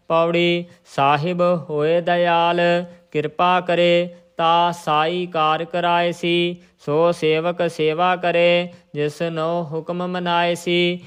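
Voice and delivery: measured Gurbani recitation on a level tone; intoned Sikh scripture reading. Shown as a demonstration. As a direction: recite the verse evenly, drawing out line endings.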